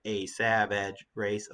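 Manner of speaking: slow, long AY on "A" and "race"; deliberate vowels in "A savage race", drawn out; showing A sounds. Shown as a demonstration. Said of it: "a lot of A sounds there".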